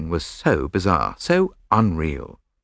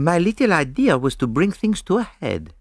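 put-on higher-pitched, placid French-accented explanation; 10 semitones higher than usual. A narrator's reading. Detective explaining his little idea, placidly. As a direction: explain it with unruffled calm. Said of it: "explained Poirot placidly".

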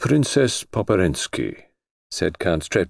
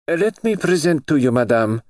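formal, ceremonious introduction, raised; solemn voice; 8 semitones higher than usual. Acted. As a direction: announce her grandly, like at court. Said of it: "said the princess in a solemn voice".

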